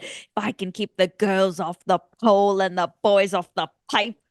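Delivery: a mild imitation of an English principal's accent; British accent. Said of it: "he's English too, so he's got that".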